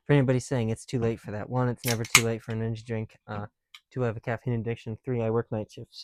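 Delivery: loud, punchy list to the viewers; loud counting-off rant. Real, not acted. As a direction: count the reasons off, loud and sure. Loud energy drink rant.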